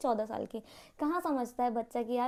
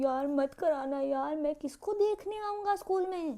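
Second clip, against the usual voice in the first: put-on sweet-talking boy; 2 semitones higher, slower than usual.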